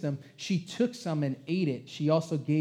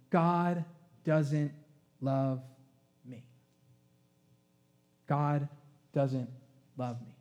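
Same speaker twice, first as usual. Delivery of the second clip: slow haunting whisper; 3 semitones lower, slower than usual. Acted. Slow quiet repetition of the lie.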